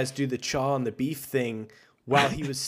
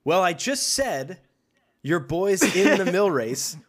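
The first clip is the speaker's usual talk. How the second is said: exasperated reply; 3 semitones higher, slower than usual. Pretend. Acted exasperated reply to men.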